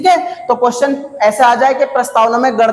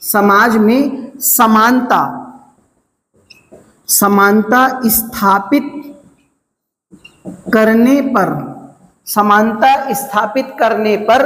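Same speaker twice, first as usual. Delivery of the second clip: slow, pausing phrase by phrase for note-taking; slow dictation. Shown as a demonstration. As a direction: dictate it slowly so students can write. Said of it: "teacher dictates the definition slowly". (धीमे-धीमे लिखवाना)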